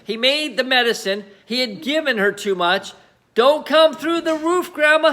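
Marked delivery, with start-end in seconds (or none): 3.3-5.1 higher, pleading plea; boy praying his grandma stops; anxious prayer. Acted. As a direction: beg under his breath. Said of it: "he prayed".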